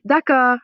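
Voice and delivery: "D'accord" said loud and clear, French r; model d'accord. Shown as a demonstration. Teacher says d'accord for students to repeat, loud. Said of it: "So répétez".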